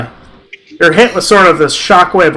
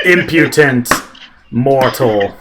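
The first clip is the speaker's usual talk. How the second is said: lightly voiced low, slow menace; a hint of a scornful ancient being; angry elder mind; 4 semitones lower, much slower than usual. Elder mind raging at the mortal, understated low scorn. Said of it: "This angry elder mind as it just rages".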